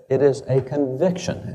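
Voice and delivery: "conviction" emphasized in a slow, measured phrase; slow down and lean on "conviction"; deliberate weight on "conviction"; stress on conviction. Shown as a demonstration. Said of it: "I would emphasize the word conviction".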